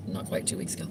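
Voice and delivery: talking with a mouthful of food; mouth full. Real, not acted. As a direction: speak around a bite of food. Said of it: "I'm talking with my mouth full of food".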